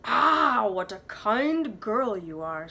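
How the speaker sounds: lightly voiced, slow sly wolf; smiling sly wolf. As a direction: flatter the girl with a toothy smile. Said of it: "smiled the wolf".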